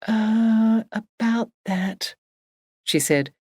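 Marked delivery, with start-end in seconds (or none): 0.1-2.1 mock serious. A narrator's reading. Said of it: "suddenly sounding serious".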